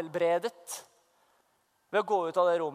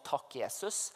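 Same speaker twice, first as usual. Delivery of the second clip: gjenfortalt takk, lavt og dypere; et puslete takk over toalettskåla; matt takk; 8 semitones lower, 11 dB quieter, slower than usual. Retold or imitated. Kneeling over toilet, saying thanks. (matt og lavmælt)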